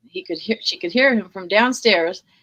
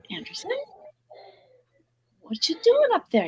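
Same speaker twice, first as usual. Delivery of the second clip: gentle retold calling; 14 semitones higher than usual. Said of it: "and quiet and gently say".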